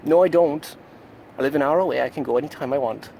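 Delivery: defiant, loud and high. Acted. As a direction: push back loudly and high. Defiant reply to himself.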